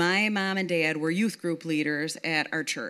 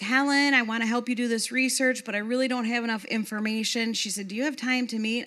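lightly voiced Yvonne, higher and eager; Yvonne's voice; 5 semitones higher than usual. Yvonne writing to Helen about the research, lightly voiced higher. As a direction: lift the pitch into her eager email voice. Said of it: "She's like".

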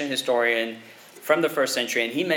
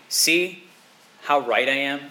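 smug boast; 3 semitones higher, 3 dB louder than usual. Retold or imitated. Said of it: "he doesn't take that kind of tone".

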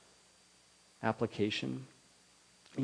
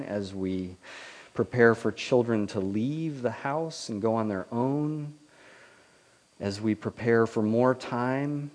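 prayer. Acted. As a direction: pray it gently for the whole church. Pastor leads closing prayer.

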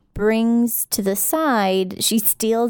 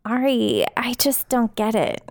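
Crystal impression. Shown as a demonstration. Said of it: "get into the character of it".

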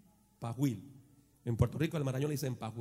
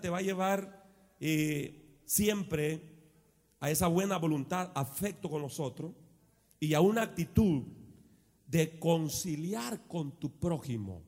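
usual speaking voice

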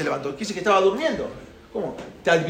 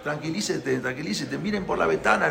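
calming father; 8 dB quieter than usual. Retold or imitated. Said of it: "Entonces el papá dice".

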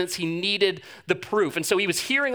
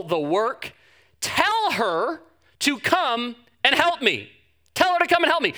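pleading, whiny complaint to the Lord, drawn out and rising; Martha complaining; 4 semitones higher, slower than usual. Acted. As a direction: act out an overworked sister begging for help. Martha voiced complaining to Jesus.

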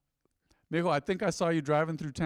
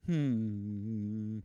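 long, low musing "hmm"; downcast hum; 4 semitones lower, 4 dB quieter than usual. Retold or imitated. Preacher re-enacting driving in a slump, low pondering hum. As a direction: hum low and drawn out, lost in your own head.

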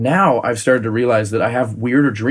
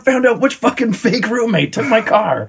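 groggy just-woke-up voice; 10 semitones higher than usual. Retold or imitated. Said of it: "I was like".

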